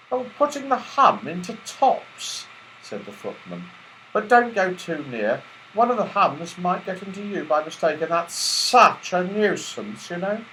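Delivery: high, polite footman voice; teddy bear footman. Acted. Footman bear welcoming the toys at the door, high and polite. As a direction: welcome the guests grandly. Footman warns about hums.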